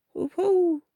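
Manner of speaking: high, loud gloating hoot; gloating heffalump. Acted. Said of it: "sort of voice that Heffalump".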